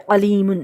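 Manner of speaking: علیمن begun with a throaty ain; careful Arabic ain opening علیمن; Arabic ain sound. Shown as a demonstration. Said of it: "علیمن عین سے ہے".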